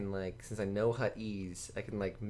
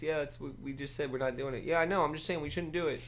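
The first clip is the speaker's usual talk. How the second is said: higher, exasperated back-and-forth; mock bickering players; 5 semitones higher than usual. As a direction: play both sides of a petty squabble. Acted back-and-forth argument.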